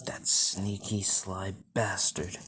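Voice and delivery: slow, seething understatement; controlled anger. Acted. Father learns who targeted his son, slow contained anger. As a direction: draw each word out with restrained anger. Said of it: "he gets pissed".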